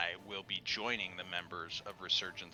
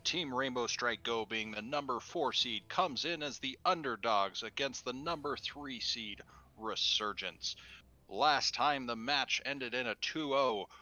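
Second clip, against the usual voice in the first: announcer voice; 3 semitones higher than usual. Pretend. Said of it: "I should work on my announcer voice".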